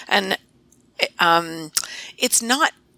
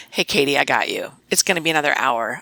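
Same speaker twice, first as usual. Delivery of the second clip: kind tone; 5 semitones lower than usual. Retold or imitated. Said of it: "in a kind tone of voice".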